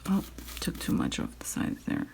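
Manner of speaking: talking while chewing gum; words round a piece of gum. Real, not acted. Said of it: "I'm chewing gum".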